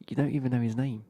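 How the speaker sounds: imitated exasperated partner, loud; retold loud challenge. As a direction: loudly call him out, mock-exasperated. Woman challenging her drunk partner.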